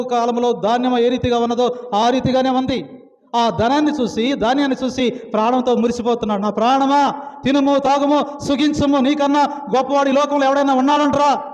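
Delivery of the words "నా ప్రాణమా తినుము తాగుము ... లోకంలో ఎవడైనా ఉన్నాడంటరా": boasting rich man. Retold or imitated. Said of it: "ప్రాణంతో మొరపెడుతుంటే".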